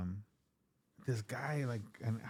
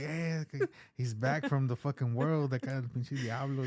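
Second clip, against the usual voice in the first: church folks' voice; 3 semitones higher than usual. Retold or imitated. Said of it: "Legit how they say it".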